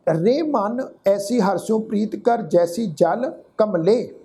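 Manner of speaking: slow, measured recital of Gurbani; chant-like reading of the verse; scripture recitation. Shown as a demonstration. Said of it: "ਹੁਣ ਇਹ ਜਿਹੜੀ ਹਾਹੇ".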